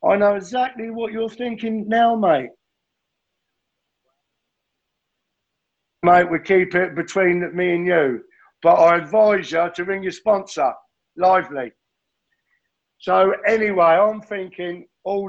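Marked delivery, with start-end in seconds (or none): 0.0-11.7 lightly voiced TV host, pitched a little up; playing the knowing telly presenter to the room; Tony J impression. Telling the room he's doing a Tony J, a light TV-host voice. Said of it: "like a Tony J. I can see him on screen now".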